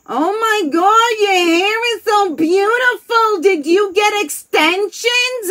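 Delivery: high, loud, slow gushing praise; gushing cousin's husband. Retold or imitated. Cousin's husband marvelling at her hair, high loud gush. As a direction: gush over the hair like it's a miracle. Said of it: "my cousin comes in and goes".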